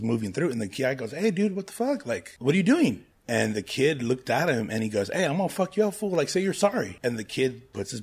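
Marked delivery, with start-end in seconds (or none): 1.1-3.0 higher, louder mock yell at a clumsy kid; mock angry gang guy. Retelling a gang member yelling at the bumping kid, mock angry. 5.1-7.0 high, loud hammed-up tough-guy threat; mock threat. Gang member threatening the Naruto kid, loud mock threat.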